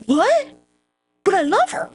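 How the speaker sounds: very high, melodramatic disbelief; hammed-up lovelorn wail; mock shock. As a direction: cry it out like a stunned lover. Acts out Mark Anthony's shocked reply.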